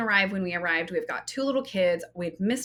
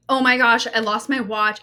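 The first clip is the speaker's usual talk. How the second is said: louder imagined panic over the lost watch; mock freak-out; 2 semitones higher, 7 dB louder than usual. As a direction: play the panic she didn't have. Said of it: "If I had freaked out in that moment".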